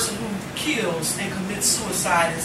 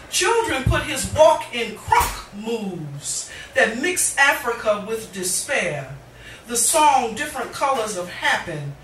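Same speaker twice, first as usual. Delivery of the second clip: rhythmic, weighted spoken word; impassioned poetry reading; poem recitation. Acted. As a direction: perform it to a live audience.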